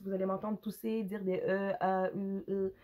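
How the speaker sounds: rough, hoarse voice; speaking hoarsely. Real, not acted. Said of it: "j'ai la voix rauque".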